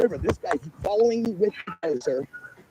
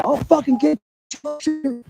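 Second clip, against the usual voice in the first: retold threat; 9 semitones higher, slower than usual. Retelling hunter's threat.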